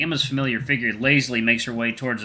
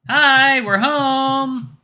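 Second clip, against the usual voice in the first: loud, high arrival call; 7 dB louder, much slower than usual. Acted. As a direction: call out to the whole house. Calling out on entering the house.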